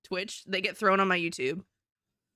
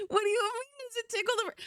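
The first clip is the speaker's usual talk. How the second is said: high sweet ASMR voice; 13 semitones higher, faster than usual. Acted. Teasing viewers in a high ASMR coo. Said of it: "Stop tickling the brain".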